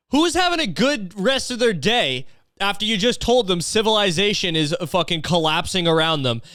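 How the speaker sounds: high-pitched disbelieving question; comically exasperated disbelief; incredulous. Real, not acted. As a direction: demand an explanation in baffled disbelief. Baffled by the ranter's cheery goodbye.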